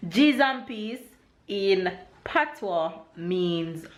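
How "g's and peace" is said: Jamaican expression. Shown as a demonstration. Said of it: "Babe always try to imitate me on this one".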